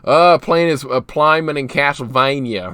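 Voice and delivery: Southern-drawled vowels; demonstrating a Southern accent. Shown as a demonstration. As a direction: stretch the vowels with a Southern twang. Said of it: "That accent, it kinda does".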